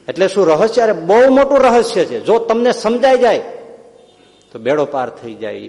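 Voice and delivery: excited secret. Acted. Pitambar's secret, raised.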